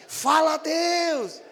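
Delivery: loud, high cry of praise; shouted praise. Retold or imitated. Congregant shouting out in church, loud praise. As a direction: call out to God at full voice. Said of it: "você grita assim".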